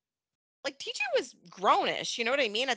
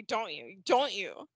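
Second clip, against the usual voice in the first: insistent pressing; 5 semitones lower, slower than usual. Retold or imitated. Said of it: "forces her to be like".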